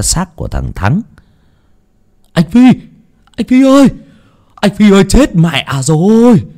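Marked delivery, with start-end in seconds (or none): 2.3-6.4 calling out. A narrator's reading. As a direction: yell for him as you run in. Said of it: "từ xa đã lên tiếng kêu gào".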